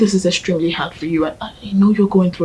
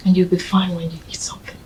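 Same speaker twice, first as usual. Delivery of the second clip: whispered coaxing; faster than usual. Acted. Coaxing friend to eat.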